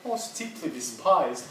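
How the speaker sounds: imitating posh British intonation, drawn out; posh accent. Teacher quoting the recording's intonations, lightly imitated posh accent. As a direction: lightly mimic a posh English accent, slowly. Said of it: "All these intonations and kind of".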